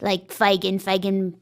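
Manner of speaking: put-on British stage accent for the Artful Dodger. Shown as a demonstration. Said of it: "I was showing you the accent".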